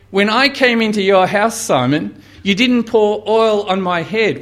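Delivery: voicing Jesus. Jesus rebuking Simon.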